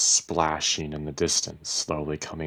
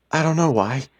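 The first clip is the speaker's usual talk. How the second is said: raised voice, high and loud; full-voiced, pitched-up reply; no longer whispering; 11 semitones higher, 8 dB louder than usual. A narrator's reading. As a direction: drop the whisper and speak right up. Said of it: "no longer whispering".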